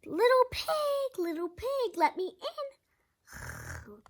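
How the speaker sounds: sweet then menacing; growling wolf. A narrator's reading. Wolf at the door, a lightly growled demand. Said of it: "growled the wolf".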